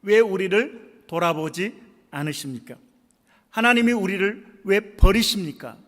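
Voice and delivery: mildly acted complaint to God; retold reproach. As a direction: voice a measured grievance, rising a little. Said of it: "하나님에 대해서 원망합니다". (가볍게 흉내 낸 원망조)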